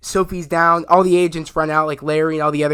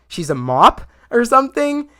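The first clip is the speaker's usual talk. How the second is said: higher, louder goofy mishearing; mock confused mishearing; 7 semitones higher, 4 dB louder than usual. Vigilante mishears the word cop, goofy and louder. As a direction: play the dim guy who misheard.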